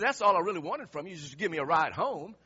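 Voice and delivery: imitating a loud complaint; mad coworker. Stranded coworker who only wanted a ride, loudly aggrieved. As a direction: push the grievance out forcefully. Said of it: "it really made him mad".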